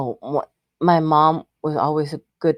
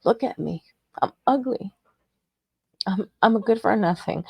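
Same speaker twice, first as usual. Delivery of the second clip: retold crying. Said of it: "cry in the mirror and say".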